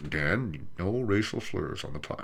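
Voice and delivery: a hint of a parent telling him off; mock scolding dad.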